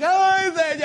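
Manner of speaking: very high, loud hammed-up wail; mock scream. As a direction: imitate worshippers screaming to heaven. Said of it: "people would scream like".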